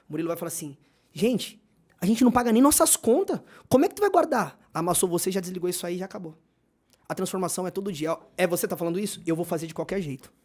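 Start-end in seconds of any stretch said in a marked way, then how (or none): 1.1-4.6 lightly acted exasperation, pitch climbing high; mock incredulous objection. Husband shoots down the savings plan, mock incredulous objection. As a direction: push the question up in disbelief.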